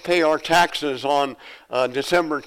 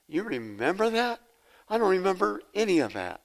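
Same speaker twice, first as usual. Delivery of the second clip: higher-pitched incredulous question; puzzled, high-voiced amazement; amazed disbelief; 5 semitones higher, 5 dB quieter than usual. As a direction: retell being baffled, pitched up. Amazed at wife's memory, retold.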